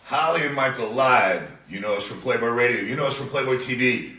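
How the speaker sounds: show opening. Real, not acted. Host greeting listeners on Dash Radio, announcer style. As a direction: deliver it like a live radio intro.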